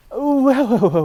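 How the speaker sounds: loud, high startled whoas; alarmed whoa. Retold or imitated. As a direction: stop them short with a loud whoa. Stops Americans calling him American.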